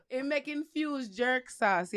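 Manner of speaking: put-on Jamaican accent. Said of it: "the Jamaican accent".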